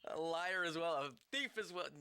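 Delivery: stern accusation. Acted. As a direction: press the accusation harder. Character accusing stranger.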